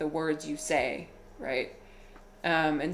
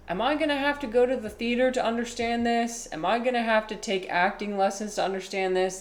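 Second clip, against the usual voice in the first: higher, amazed protest; mock-appalled questioning, pitched up at first; appalled student; 5 semitones higher than usual. Russian student protesting intonation lessons to his teacher, amazed and appalled. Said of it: "he was just amazed and appalled".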